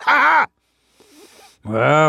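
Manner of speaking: gloating bear laugh; big "ha ha" dropping in pitch; triumphant "ha". Acted. Bear laughs on clamping the chipmunk, triumphant.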